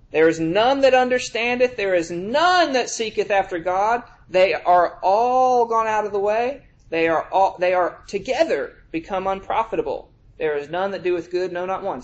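preacher reading the psalm quotation; scripture reading. Acted. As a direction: lean on every none. Reading Romans aloud.

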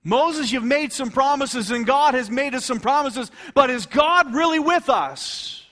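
loud, high mocking challenge; acting out scornful doubters, drawn out; derision. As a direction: taunt Moses loudly, stretching the words. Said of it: "derision in their voice".

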